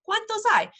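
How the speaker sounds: "hay" said with no H sound, like English "eye"; teacher's demo of "hay" with a silent H. Shown as a demonstration. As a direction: drop the H in "hay". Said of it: "you don't pronounce the H".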